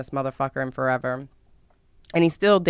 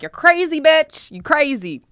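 mock scolding; 10 semitones higher, 4 dB louder than usual.

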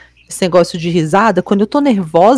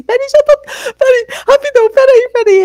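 high, laughing-crying pleas, voice cracking; nervous laughing; 3 dB louder than usual. Retold or imitated. Patient at the dentist, begging to wait, laughing high and teary. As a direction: squeak it out through helpless giggles.

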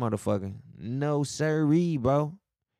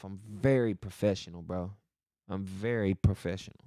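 lower, lightly put-on professional voice; 5 semitones lower than usual. Shown as a demonstration. Vlogger assuring clients, mildly put-on professional voice. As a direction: drop lower to sound a touch professional. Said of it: "I know I be talking like this".

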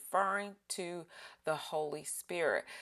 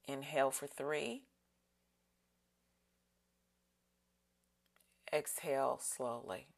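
breathing cue. Shown as a demonstration. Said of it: "let's breathe in".

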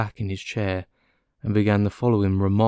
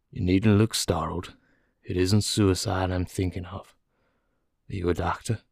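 lightly voiced American prisoner; a hint of a resigned man; composed prisoner; 2 semitones lower than usual.

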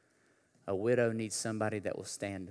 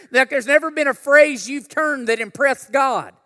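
high, loud shouted preaching; full-force preaching; 22 dB louder than usual. Acted. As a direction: preach it at the top of your voice.

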